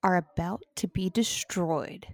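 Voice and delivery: low, booming dramatic trailer narrator; movie trailer voice. Acted. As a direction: announce doom like an epic trailer. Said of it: "I wanted to try my movie trailer voice".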